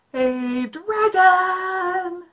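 loud high call; shouting. Acted. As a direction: shout to wake him. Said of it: "Elizabeth shouted".

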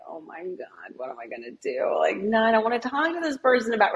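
student dreading a talk with an intense teacher; panicked kid. Retold or imitated. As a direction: lightly act out a kid's panic. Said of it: "the kid's like".

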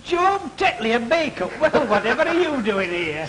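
put-on high-pitched greeting to an old pal; pleasantly astonished, voice lifted; delighted surprise. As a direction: exclaim the name, then laugh. Greets old friend met by chance.

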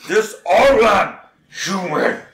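slow, lightly voiced goblin. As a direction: state it like a blunt goblin. Goblin broken speech.

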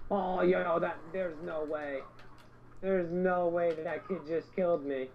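slow, stunned disbelief; can't believe it. Real, not acted. Disbelief after being killed.

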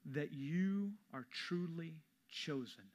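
slow intimate whisper to the congregation. Real, not acted. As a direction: lean in and breathe the words slowly. Preacher drops to intimate whisper.

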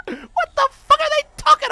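high, loud laughing protest; laughing disbelief. Real, not acted. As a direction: laugh it out in outrage. Laughing outrage at game.

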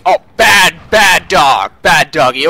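loud dog-scolding voice. Pretend.

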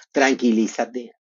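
calming husband. Retold or imitated. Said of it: "me tranquiliza, Marco Antonio".

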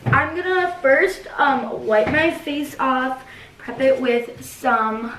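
slow beauty guru delivery; makeup tutorial voice. Pretend. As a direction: talk it through like a makeup tutorial. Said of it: "I was just acting like it was my face and I was doing makeup".

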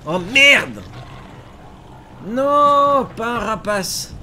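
loud high outcry; alarmed shout. Real, not acted. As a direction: cry out in alarm. Sudden danger in game.

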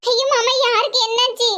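high-pitched, worried plea for news; acted alarm on the phone; alarmed pleading. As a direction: beg anxiously to hear what happened.

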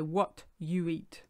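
"What you eat." said slowly, word by word; translating word for word, slowly; slow literal translation. Shown as a demonstration. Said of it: "We actually say".

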